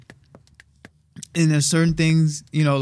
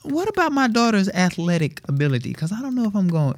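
worried dad self; 8 semitones higher than usual. Retold or imitated. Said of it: "I was like".

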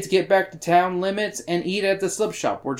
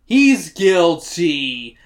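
drawn-out, loud declaration; mock verdict; 5 dB louder, much slower than usual. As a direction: pronounce it slowly like a damning verdict. Mock verdict blurted on accused man.

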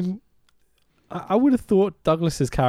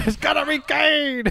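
excited shout; 12 semitones higher than usual. Real, not acted. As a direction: shout it out as the perfect payoff. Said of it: "That would have fucking be a payoff".

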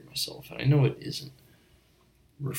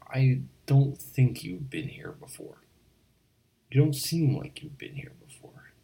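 breathy stage whisper, pitched up; loud whisper; 5 semitones higher, 6 dB louder than usual. Acted. Barkeep confides to a new customer in a stage whisper.

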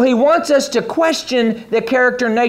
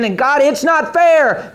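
higher, slower plaintive protest; mock complaint; 5 semitones higher, slower than usual. Preacher imitating an offended believer, higher slow mock protest. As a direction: whine it up high and slow at God. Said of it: "That statement's a statement of offense".

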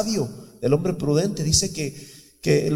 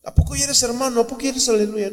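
mocking retort; 6 semitones higher, faster than usual. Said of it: "¿Sabes qué les decía yo?".

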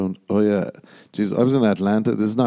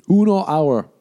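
higher, louder comic punch; mock emphasis; 8 semitones higher, 5 dB louder than usual. Comic joking about a short flight, high louder punch. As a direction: land it as a silly joke. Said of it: "joke on short flight".

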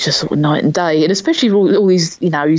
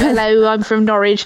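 mock Norwich accent; 4 semitones higher than usual. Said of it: "type sort of accent".

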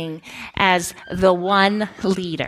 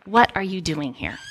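gently insisting, slowed down; firm mentor teacher. Retold or imitated. Mentor teacher sending Sarah home, mildly stern. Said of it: "she looked at me again, and she said".

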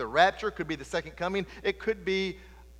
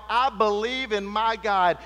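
loud yelled declaration; preached yell; 2 semitones higher, 6 dB louder than usual. Acted. The vessel yells its faith, loud proclaiming cry. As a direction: shout it as the ark's cry. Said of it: "it yelled out".

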